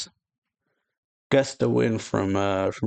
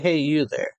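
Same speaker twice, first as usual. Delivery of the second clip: redone character call; 6 semitones higher than usual. Retold or imitated.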